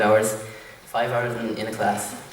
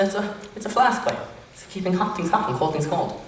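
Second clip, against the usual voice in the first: higher Irishman retelling; 8 semitones higher than usual. Retold or imitated. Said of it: "And all like".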